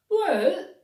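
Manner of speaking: a big rising, loud well. A narrator's reading. Bingy starts to answer Clegane, loud and drawn out. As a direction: call it out with a rise.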